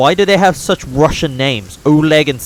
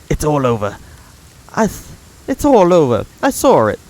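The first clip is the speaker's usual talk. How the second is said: Svetlana; 2 semitones higher, 3 dB louder than usual. Acted. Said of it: "trying to put on different voices".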